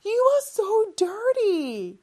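teacher models a shocked scold; disgusted scolding. Shown as a demonstration. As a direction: tell the kid off, playfully. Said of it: "같이 해볼까요?".

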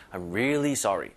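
really stressed and drawn out a little. Shown as a demonstration. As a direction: stretch "really" slightly in "I'm really sorry". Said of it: "요것도 힘을 주면 살짝 끌어주는 거예요". (really에 힘을 주고 살짝 끌기)

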